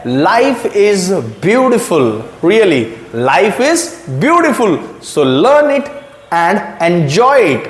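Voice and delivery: very slow, each word savoured; slow tagline. Shown as a demonstration. Teacher says her tagline to students, very slowly. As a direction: stretch out beautiful warmly and slowly. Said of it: "मेरी tagline है".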